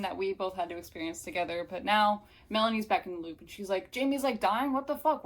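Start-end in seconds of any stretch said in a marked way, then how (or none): 3.9-5.2 higher, louder incredulous questions; acted shock. Melanie back in the loop, mock incredulous shock. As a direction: demand to know what happened.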